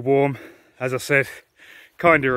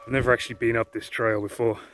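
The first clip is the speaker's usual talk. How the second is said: breathless from walking uphill; panting between words on a climb; out of breath. Real, not acted. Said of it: "Sorry, I am well out of breath".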